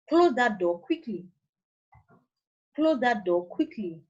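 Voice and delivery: "Close that door quickly" as a command, pitch falling to the end; measured orders ending on a downward tone. Shown as a demonstration. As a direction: give each order with a falling close, down to "now". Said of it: "The falling tone".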